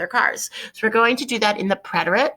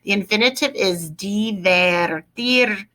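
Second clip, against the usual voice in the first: slow dictation; slower than usual. Shown as a demonstration. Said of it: "write it out in the infinitive".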